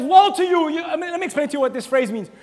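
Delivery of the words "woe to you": stern woe. Acted. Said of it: "and he says".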